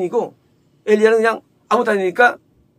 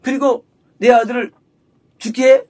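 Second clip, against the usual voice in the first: acted accusation; 3 semitones higher, 4 dB louder than usual. Mother accusing Elijah of her son's death, confrontational. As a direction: throw the blame at him, in imitation. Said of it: "따지는 거예요".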